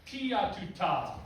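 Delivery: slow syllables given some attitude. Shown as a demonstration. Conductor modelling articulation for the band, with attitude. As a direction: say "Tia tu ta" with attitude. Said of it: "do it with some attitude".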